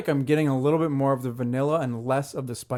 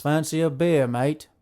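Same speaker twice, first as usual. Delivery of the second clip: mock English accent; slower than usual. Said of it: "All of my English accents".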